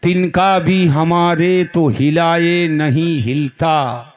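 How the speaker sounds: slow, measured recital of verse; verse recitation. Acted. Preacher quotes a couplet to his congregation, slow recitation. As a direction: draw the line out evenly and slowly.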